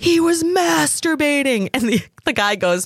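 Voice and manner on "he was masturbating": put-on very high-pitched screeching, screaming outburst. Retelling a story, imitating the pizza place owner screaming. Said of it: "the owner of the pizza place screaming".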